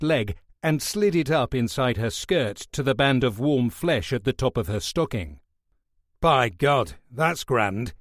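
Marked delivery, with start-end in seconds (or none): 6.2-7.9 lusty relish. Acted. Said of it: "With a sudden fierce chuckle".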